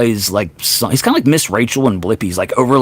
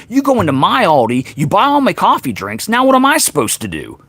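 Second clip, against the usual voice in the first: put-on higher, whiny grumpy old man ranting; 4 semitones higher than usual. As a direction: complain like a cranky old man losing his cheap drinks. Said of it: "That's a This Old Man character".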